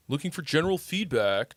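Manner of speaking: Austrian accent, German-Dutch flavour. Shown as a demonstration. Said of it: "You like my Austrian accent?".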